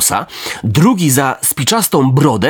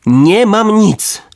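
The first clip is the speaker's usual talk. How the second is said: higher, slow and pleading; puppet pleading; 6 semitones higher, much slower than usual. A narrator's reading. Puppet with coins in mouth, slow higher plea. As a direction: stretch it out as if through a full mouth. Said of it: "co miało znaczyć".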